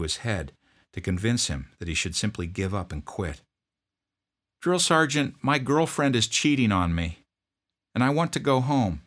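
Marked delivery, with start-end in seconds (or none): 4.6-9.0 put-on much higher, strained young voice; pleading private. Homesick private begging his drill sergeant, high plea. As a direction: plead like a scared recruit.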